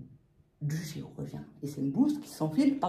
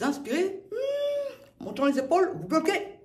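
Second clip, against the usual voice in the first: strained, higher voice holding breath; held breath; 12 semitones higher, 5 dB louder than usual. Shown as a demonstration. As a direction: talk while holding air in. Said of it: "breathing demo, holding breath".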